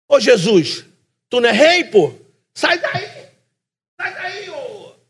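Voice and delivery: mocking thief.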